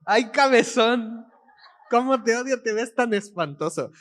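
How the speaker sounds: mock-doting pet talk; imitating pet owner's tone. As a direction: copy her fond insult to a dog. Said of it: "Palabras de Mónica". (imitando el mimo a un perrito)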